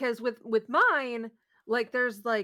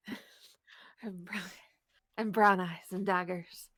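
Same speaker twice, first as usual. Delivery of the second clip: low breathy voice; 6 semitones lower than usual. Pretend. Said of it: "low, breathy voice".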